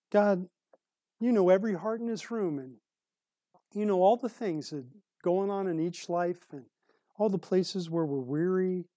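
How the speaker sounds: earnest pastoral prayer voice; closing prayer. Acted. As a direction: pray over the congregation, steady and sincere.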